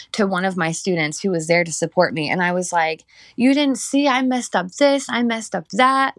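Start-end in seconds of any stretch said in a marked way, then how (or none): 3.4-6.2 upset in tears. Retold or imitated. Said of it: "Like, I was in tears".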